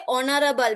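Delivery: "Honorable" begun on the O, no H; silent H. Shown as a demonstration. Teacher repeating the right word for pupils, silent H. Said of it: "we hear the sound O".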